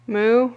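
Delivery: weak try at a cow's moo; half-hearted moo. Pretend. Answering what moo cow says, half-hearted moo. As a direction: moo without much commitment. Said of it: "That was half-hearted".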